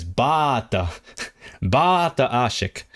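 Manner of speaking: light imitation of a Nova Scotian Gaelic speaker saying "bata". Quoting the Nova Scotian guy's Gaelic, mild accent imitation. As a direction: mimic the Nova Scotian "bata", slow and falling. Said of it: "Nova Scotian guy says".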